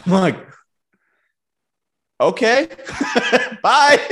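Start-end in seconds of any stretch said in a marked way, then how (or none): 2.2-4.0 high, laughing brush-off; amused higher goodbye through laughter; laughing okay bye. Retold or imitated. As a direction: laugh it off and wave him away. Dismissive reply to odd advice.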